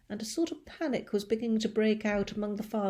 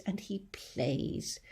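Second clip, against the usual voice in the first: soft, slow fading line; 7 dB quieter, much slower than usual. Acted. James letting the grasshopper verse fade away. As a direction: let it die away.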